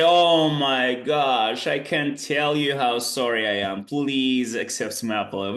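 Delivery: hammed-up regretful apology; mock remorseful apology. Shown as a demonstration. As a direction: act out being truly sorry. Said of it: "Oh, you say".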